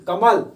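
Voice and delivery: loud demonstration of stress on म in कमल. Shown as a demonstration. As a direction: hit the म of कमल hard. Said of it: "सबसे ज्यादा जोर म पर पड़ रहा है".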